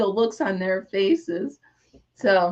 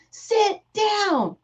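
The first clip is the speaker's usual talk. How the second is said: retold group yell; 10 semitones higher than usual. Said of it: "they all yelled his name and said".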